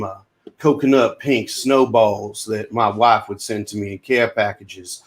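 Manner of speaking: put-on Southern accent, earnest and folksy; Cameron Poe. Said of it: "Great accents, both of you".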